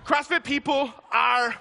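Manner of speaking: slow, high, half-shouted punchline; hammed-up declaration; emphatic proclamation. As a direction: drag it out for the laugh.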